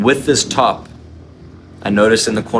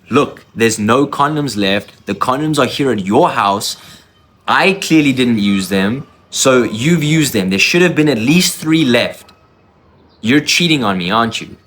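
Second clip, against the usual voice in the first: accusing; 2 semitones higher than usual. Retold or imitated. Accusing his girlfriend over missing condoms, heated and rising. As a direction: press her hard, voice climbing.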